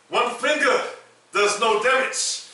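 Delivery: high-pitched mock big mama; hammed-up, high big mama voice. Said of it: "in my big mama voice".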